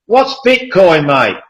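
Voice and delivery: high, slow, baffled question; a lightly voiced lady in her fifties, lost; puzzled older lady. Older café lady asking the customer about Bitcoin, baffled. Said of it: "And she said".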